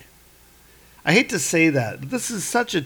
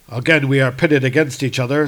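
Thor; 4 dB louder than usual. Acted. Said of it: "says Thor".

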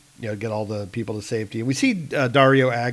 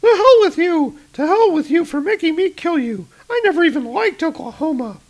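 much higher, much louder furious yell; enraged woman cursing the man she must kill; furious scream; 7 dB louder than usual. Acted. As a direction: scream at him in rage. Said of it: "she's like".

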